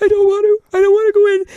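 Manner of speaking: very high, loud wailing refusal; imitating crying girl. Coach mimics the crying girl refusing to go in, high loud wail. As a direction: wail it like a sobbing kid. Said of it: "She's like".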